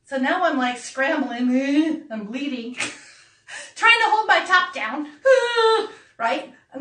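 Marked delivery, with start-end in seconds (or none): 3.7-5.9 high, louder laugh breaking through the words. Real, not acted. Telling friends about losing her top, laughing high. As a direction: laugh helplessly as you tell it.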